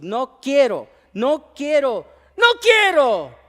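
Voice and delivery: put-on a child's refusal rising to a high wail; little boy who won't go to school, escalating; child's whining refusal. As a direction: build from a whine to a wailing no.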